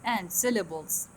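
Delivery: slow, with a rise on rise; slow dictation. Shown as a demonstration. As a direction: read the phrase out slowly. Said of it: "هذا rise".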